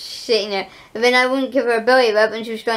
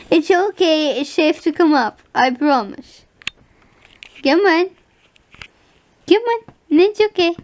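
higher, gentle coaxing to a scared pet; coaxing dog; 4 semitones higher than usual. Real, not acted. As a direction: soothe a hiding dog out.

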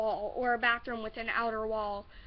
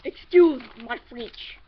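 "Excuse my French" slow, louder, in a put-on voice; mock posh apology; 9 dB louder, slower than usual. Shown as a demonstration. Vlogger apologising to viewers for swearing, slow playful put-on voice. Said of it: "Sorry for my language".

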